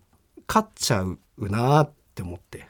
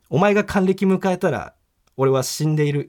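inner recital; 5 semitones higher than usual. Retold or imitated. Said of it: "改めて心の中で".

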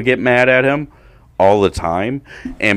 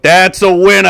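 excited call; 12 semitones higher, 8 dB louder than usual. Retold or imitated. Dad calling the walk-off.

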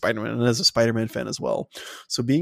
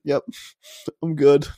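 cocky reply; 4 semitones higher, 5 dB louder than usual. Retold or imitated. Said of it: "It's like".

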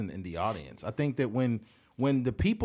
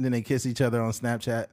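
ordinary talk, nothing marked

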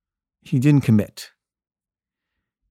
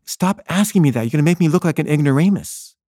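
higher-pitched pleading objection; retold exasperation; 4 semitones higher than usual. The speaker begs the interviewer to stop asking, mildly exasperated. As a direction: protest the barrage of questions.

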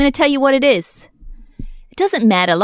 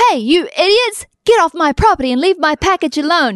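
mock yell at thieves; 4 semitones higher than usual. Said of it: "you might wanna say".

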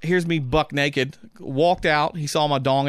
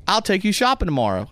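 raised coaxing offer; 6 semitones higher than usual. Retold or imitated. Stranger in the tub baits him with shopping, coaxing higher. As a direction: tempt him, pitching it up.

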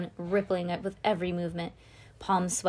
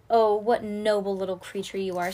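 sneering; 5 dB louder than usual. Acted. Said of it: "hardly sneering".

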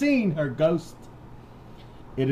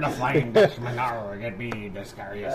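mock pirate; 4 semitones lower than usual. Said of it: "do a pirate voice".

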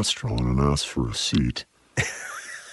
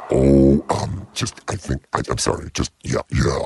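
timid mumbling; 4 semitones lower than usual. Retold or imitated. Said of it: "It's not".

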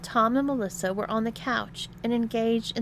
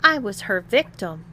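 louder, aggrieved protest; complaining; 7 dB louder than usual. A narrator's reading. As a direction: complain with a touch of hurt. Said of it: "complained Tom".

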